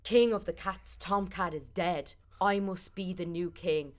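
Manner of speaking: a hint of a cat king announcing; cat's proclamation. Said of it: "and says".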